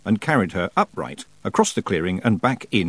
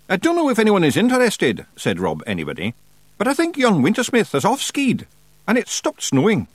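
Scottish Feegle voice; 11 semitones higher than usual. A narrator's reading. Rob Anybody voiced, high.

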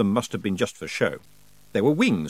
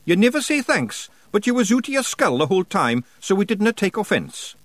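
high, broad Scots wee man, cheeky and gruff; a higher pitched Scots brawler voice; Scottish pictsie Rob; 9 semitones higher, 3 dB louder than usual. Acted. Pictsie chief thanking nobody for thanks, in a high Scots voice.

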